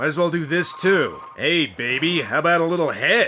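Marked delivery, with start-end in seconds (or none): 1.4-3.3 silly, stupid-sounding brain character voice. Voicing a brain, the speaker adds another line in a stupid brain voice. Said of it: "as long as I'm doing stupid brain voices".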